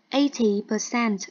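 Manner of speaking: "Eighty" with the stress on the first syllable, said slowly; slow and clear, hit the start of "Eighty". Shown as a demonstration. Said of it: "eighty thì sẽ nhấn vào âm một". (nhấn vào âm đầu của "Eighty", nói chậm)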